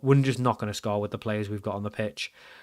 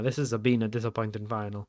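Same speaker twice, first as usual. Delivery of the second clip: softer repeat in mild Italian-accented English; 3 semitones lower, 6 dB quieter than usual. Shown as a demonstration. Player echoing his own slip, mild Italian accent. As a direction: lightly mimic your own Italian-sounding slip. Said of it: "I sounded quite Italian there".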